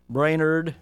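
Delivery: "Brainerd" with emphasis on the final "nerd"; stress on NERD. Retold or imitated. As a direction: lean on the end of "Brainerd", brai-NERD. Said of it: "emphasis on the nerd at the end".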